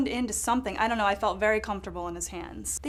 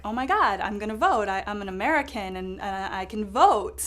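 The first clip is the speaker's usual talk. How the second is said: excited. Retold or imitated. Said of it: "I'm like".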